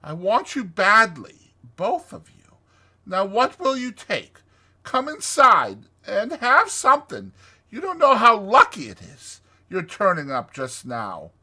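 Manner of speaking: high, gushing excited welcome; excited Toad. Acted. Toad presses friends to come inside, excited.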